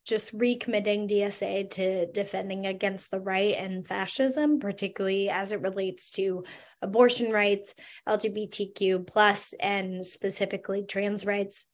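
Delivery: hoarse, voice giving out; rough, worn-out hoarse voice; losing voice. Real, not acted. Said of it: "I'm losing my voice, as you can hear".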